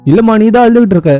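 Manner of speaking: high-pitched, mock-upset fretting; tearful bewilderment. Puzzling over crying for another's sorrow, tearful bewilderment. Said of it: "நான் ஏன் அழுவுறேன்".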